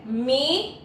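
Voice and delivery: "Mi" said as a separate first syllable; syllable alone. Shown as a demonstration. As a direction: isolate the syllable "Mi". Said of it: "eu pronuncio mi ao separar a sílaba". (sílaba "Mi" isolada)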